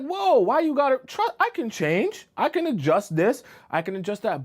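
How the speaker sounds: high mock-desperate bargaining; hammed-up suitor promising to change, easing down; pleading man. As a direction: backpedal in a high, imitated pleading voice. Acts men backtracking to keep her.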